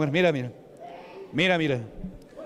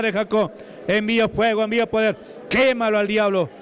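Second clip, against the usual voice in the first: fervent deliverance prayer; 3 semitones higher than usual. Real, not acted. Preacher begging God to free the woman, fervent full-force prayer. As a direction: pound out each repeated plea.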